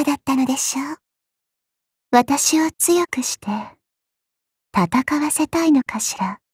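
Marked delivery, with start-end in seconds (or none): 2.1-6.2 slow whispered tease; slow teasing whisper. Acted. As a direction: whisper it slyly to the master. Teasing the master. (ゆっくり囁くからかい)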